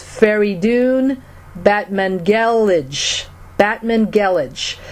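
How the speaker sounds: Feridun Batmangelij sounded out slowly and carefully; measured, careful attempt at Feridun Batmangelij; tentative name pronunciation. Shown as a demonstration. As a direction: say Batmangelij deliberately, as an unfamiliar name. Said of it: "I think it's pronounced".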